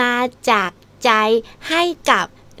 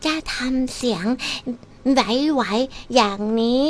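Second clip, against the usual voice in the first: slow, softer wavering demo voice; 2 semitones lower, 4 dB quieter, much slower than usual. Shown as a demonstration. DJ showing off another of her voices, wavering. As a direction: let the voice waver, slowly and softly.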